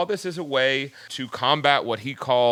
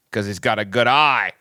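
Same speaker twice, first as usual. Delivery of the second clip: mock Australian; 4 dB louder than usual. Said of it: "I do a terrible Australian accent".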